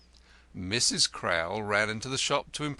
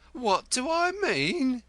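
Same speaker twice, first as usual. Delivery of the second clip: high, loud, slow throw-back; wife echoing the lodger's question angrily; 1 sharp echo; 5 dB louder, slower than usual. A narrator's reading. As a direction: hurl his words back. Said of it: "Missus Crowl echoed".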